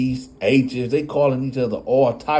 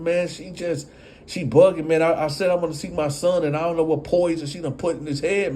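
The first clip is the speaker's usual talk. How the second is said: flustered fast rant; 5 semitones higher than usual. Retold or imitated. Upset explanation.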